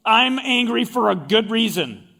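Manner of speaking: mock righteous protest, lightly acted; self-justifying anger. Preacher voicing people who justify their anger, mildly indignant. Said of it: "when they get angry, they justify".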